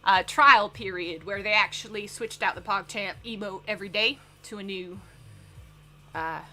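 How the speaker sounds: lightly put-on, self-conscious Southern accent; bad Southern accent. Shown as a demonstration. Streamer reading a news topic to chat as a joke, bad Southern accent. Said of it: "really bad Southern accent".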